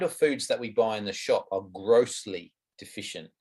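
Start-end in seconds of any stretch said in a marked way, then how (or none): 1.7-3.3 weight on "grossly", then a drop on "deficient"; emphatic stress. Real, not acted. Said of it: "I can't emphasize that word enough".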